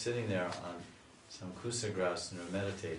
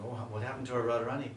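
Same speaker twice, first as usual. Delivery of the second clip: raised, fast, anxious gopi voices; worried gopis; 3 semitones higher, 4 dB louder than usual. Retold or imitated. Gopis worrying about facing Radharani's parents, raised and anxious. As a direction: fret together as worried girls. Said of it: "the gopis start talking".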